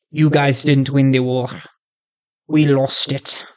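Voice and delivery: half-hearted German accent, playing the villain. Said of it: "I don't know if that's a good German accent".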